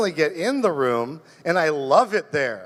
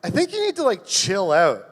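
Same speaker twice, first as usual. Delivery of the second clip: mock friend; 2 semitones higher than usual. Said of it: "And she was like".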